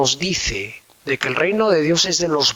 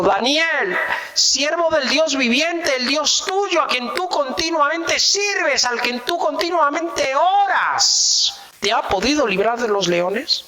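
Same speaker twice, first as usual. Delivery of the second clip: a touch of grief in a raised voice; sad calling out; 9 semitones higher than usual. A narrator's reading. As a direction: call out to Daniel in sorrow, pitched up. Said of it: "llamó a voces a Daniel con voz triste".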